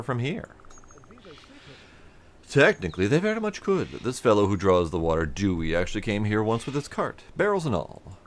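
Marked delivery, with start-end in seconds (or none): 2.5-8.2 lightly voiced cheerful foreman, louder and bright; a hint of a welcoming foreman; friendly supervisor. Player voicing a supervisor greeting a traveler, hearty. NPC dialogue.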